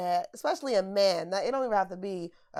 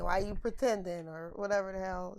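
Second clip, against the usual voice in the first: retold exasperated rant; 4 dB louder than usual.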